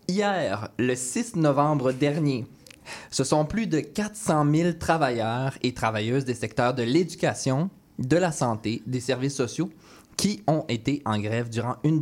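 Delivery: measured news-anchor delivery; news anchor read. Acted. Mock news report and host intro.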